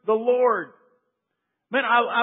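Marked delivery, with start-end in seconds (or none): 0.0-0.7 loud, very slow, insistent pledge; emphatic vow. Retold or imitated. People vowing to Joshua, loud slow insistence. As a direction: plant every word, slowly and firmly.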